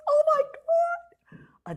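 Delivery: high, slow whispered gasp of disbelief; hushed oh my God; breathless whisper. Real, not acted. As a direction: whisper it, amazed. Stunned by old photos.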